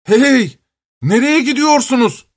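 high shout after fleeing animals; calling out. Acted. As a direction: yell after the animals running off. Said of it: "diye bağırmış".

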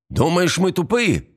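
high, taunting question; shouted challenge. A narrator's reading. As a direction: throw it out high and scornful. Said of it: "снова крикнул Эстебан".

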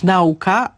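"nauka" with NAU stressed as one syllable; mistaken stress in nauka. Shown as a demonstration. Expert warns against a wrong form, "nauka" stressed on NAU. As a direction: hit the front of "nauka", NAU-ka. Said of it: "żeby nie mówić".

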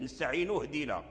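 نستعين اهدنا run together as nasta'inu-hdina; hamza dropped in linking. Shown as a demonstration. Teacher showing linked reading, نستعين اهدنا without hamza. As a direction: glide from the nun straight into the h of اهدنا. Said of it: "فحذفت".

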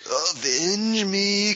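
slow drawn-out dying plea; overacted death scene. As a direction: stretch it out like a dying hero's last words. Dubbing dying mentor, dragged out.

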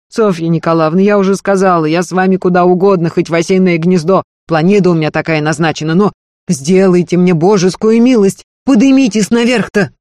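earnest servant woman begging, high and loud; Marfa's pleading voice. Acted. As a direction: beg her mistress not to leave, pressing hard. Marfa begs her mistress.

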